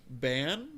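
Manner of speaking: "ban" drawn out slowly with an A instead of AH; alternative vowel demo. Shown as a demonstration. Suggesting another way to say the name, vowel demo. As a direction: stretch the A in "ban". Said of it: "a long A instead of a short A".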